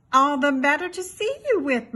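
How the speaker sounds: lightly faked granny voice; mild put-on grandma voice from the wolf. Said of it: "said the wolf in his grandma voice".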